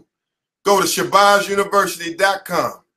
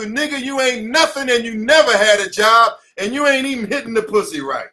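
a lightly raised imitation of a scolding woman; mock nagging woman; 4 semitones higher than usual. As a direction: mimic the girlfriend's taunt, mildly higher. Voicing an insulting girlfriend.

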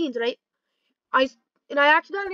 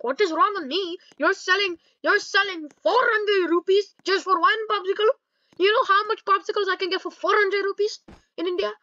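raised, higher mock protest; indignant retort; 5 semitones higher than usual. Customer haggling over popsicle price, mock indignation. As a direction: argue back insistently.

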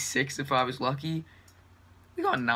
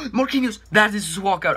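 surprised gasp; 6 semitones higher, 6 dB louder than usual. Real, not acted. Gasp at walkout.

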